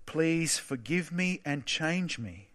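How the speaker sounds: "Please forgive me and change me" said slow and soft, as a real plea; slow prayer. Acted. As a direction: pray it quietly, word by word. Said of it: "I'm gonna say it slowly".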